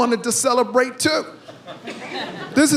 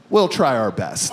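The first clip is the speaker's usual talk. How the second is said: much lower, slow grave doctor; 10 semitones lower than usual. Retold or imitated. Doctor answering the patient, low and grave. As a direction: say it low and solemn. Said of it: "looks me straight in the eye".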